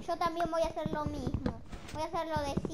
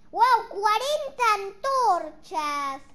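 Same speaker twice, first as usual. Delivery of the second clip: amazed; 3 semitones higher, 7 dB louder, much slower than usual. Real, not acted. Crafted forty torches.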